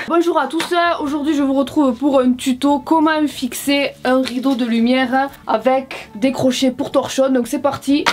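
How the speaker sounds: lightly put-on presenter voice; a touch of mock instructional formality; mock tutorial host. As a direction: play at opening a DIY tutorial. Puts on tutorial host, then laughs.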